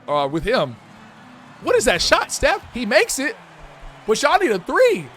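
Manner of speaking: hyped announcer calling the game; play-by-play commentary. Pretend. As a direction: narrate the action like a broadcaster.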